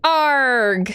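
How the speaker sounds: gruff pirate growl; pirate arg. Real, not acted. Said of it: "I said that like a pirate".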